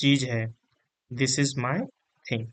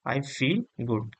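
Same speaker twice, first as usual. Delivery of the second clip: slow model sentence; much slower than usual. Shown as a demonstration. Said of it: "मुझे अच्छा लग रहा है".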